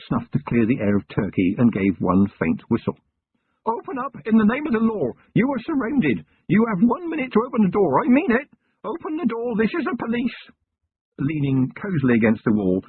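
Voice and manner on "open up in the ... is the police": police shout. Acted. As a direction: bellow it at the farmhouse door. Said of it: "Feeney hammering, shouting at door".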